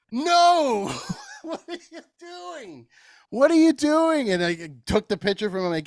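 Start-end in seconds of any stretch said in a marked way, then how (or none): 0.1-4.3 high-pitched, laughing "what are you doing"; laughing disbelief. Retold or imitated. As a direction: scold him while cracking up. Catches old dude drinking pitcher.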